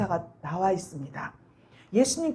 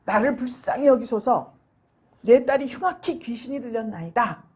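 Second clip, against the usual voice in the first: crying out; 4 dB louder than usual. Retold or imitated. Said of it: "막 소리를 지른 거예요".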